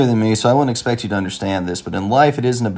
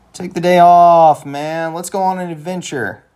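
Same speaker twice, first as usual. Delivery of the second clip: eager urging; 7 semitones higher, 4 dB louder than usual. Acted. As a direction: coax a friend into playing hooky. Urging friend to skip work.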